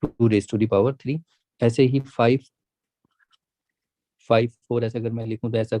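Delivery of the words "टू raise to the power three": slow, deliberate reading of the whole term; teacher dictating the answer slowly; slow model reading. Shown as a demonstration. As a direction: read it back slowly for students. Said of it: "जरा इसको read करके दिखाइए".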